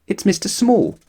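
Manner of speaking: a hint of a small squeaky man; Mister Small voice. A narrator's reading. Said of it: "said Mister Small".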